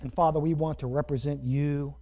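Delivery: measured prayer with long pauses; closing prayer. Real, not acted. Preacher leading the congregation in prayer, measured and reverent. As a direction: pray aloud in unhurried phrases.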